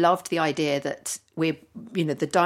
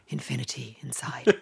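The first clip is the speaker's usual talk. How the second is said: newsreader voice; 3 semitones lower, 5 dB quieter than usual. Shown as a demonstration. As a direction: read it like a news headline. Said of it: "I have to say it like that".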